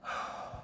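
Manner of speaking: long unvoiced shaky-free breath out, very soft; nervous exhale. Frightened friend at the escalator top, soft exhale. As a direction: breathe out to steady yourself. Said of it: "and she was going".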